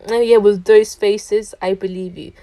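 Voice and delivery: a touch of a rude stranger's sarcasm; sarcastic. Retold or imitated. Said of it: "in a sarcastic, rude way".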